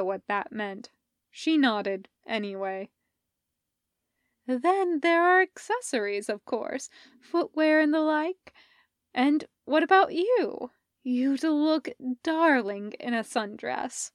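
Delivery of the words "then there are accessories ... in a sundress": elegant, dreamy fashion advisor, a bit higher; savoring the picture as she describes it; Sophie. Acted. Sophie advising Parker on Hardison's beach clothes, dreamy.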